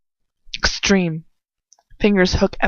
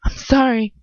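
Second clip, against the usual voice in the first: sputter desperately; 4 semitones higher than usual. Acted. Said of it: "I sputter desperately".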